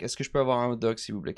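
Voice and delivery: quiet, quick polite request in French; understated French asking. Retold or imitated. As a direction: softly retell it in tourist French. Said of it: "I tried English and French".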